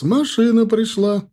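loud, high and slow call; the truck has come, called out loud and drawn out; booming announcement. Acted. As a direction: bellow it so the whole yard hears. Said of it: "зычный женский голос".

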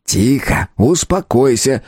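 slow, composed command; unperturbed. A narrator's reading. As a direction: hush him without getting worked up. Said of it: "невозмутимо сказал Джодок". (невозмутимо, спокойно)

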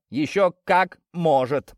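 breathless, slow, pushed out; out of breath. Acted. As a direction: gasp it out while running. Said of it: "задыхаясь". (задыхаясь на бегу)

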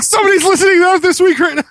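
high, fast, excited voice; mock excited. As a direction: gush it like a thrilled fan.

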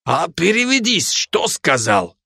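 put-on high then slow Georgian-accented ask. Georgian soldier asking for a translation, in a Georgian accent. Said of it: "каждый со своим акцентом".

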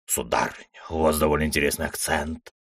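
a hint of a smooth gentleman cat. A narrator's reading. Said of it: "произнёс кот".

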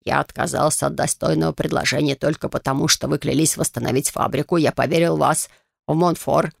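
a touch of bitter reproach; sharp and hurt. Acted. Master confronting Lady Rein, understated hurt sharpness. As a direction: speak curtly, wounded. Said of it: "Он заговорил резко, с обидой".

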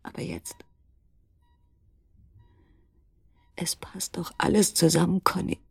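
ängstliches Flüstern, fast tonlos. Acted. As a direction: hauch es ihm eindringlich zu. Am Krankenbett des Mannes. (tonloses Flüstern)

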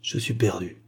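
whispery, defeated murmur; near-whisper of despair. A narrator's reading. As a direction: let it out as a hopeless murmur. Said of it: "murmura-t-il".

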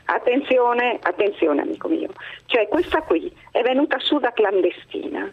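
phone-line voice; over the phone. Real, not acted. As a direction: caller heard through a telephone. Caller on the line. (al telefono)

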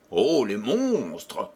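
slow, aghast exclamation at the beasts; horrified cry. Acted. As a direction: exclaim slowly in shock. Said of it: "s'écria-t-il".

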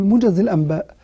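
"موجز الأنباء" with the nun slipping into a meem, "الامباء"; common people's pronunciation. Retold or imitated. Teacher imitating how common people say it, natural. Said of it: "انظر إلى عوام الناس".

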